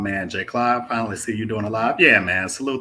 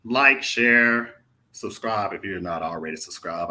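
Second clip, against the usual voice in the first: mock youtuber pitch; 2 semitones higher, 7 dB louder, slower than usual. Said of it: "I guess I'm supposed to say something like".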